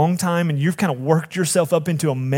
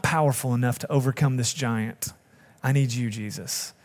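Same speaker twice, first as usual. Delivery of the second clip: prayer. Acted. Leads a confession prayer.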